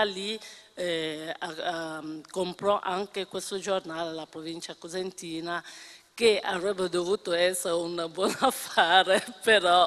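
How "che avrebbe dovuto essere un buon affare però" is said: laughter breaking into the words; trying not to laugh. Real, not acted. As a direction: hold back a laugh and fail. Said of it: "mi viene da ridere".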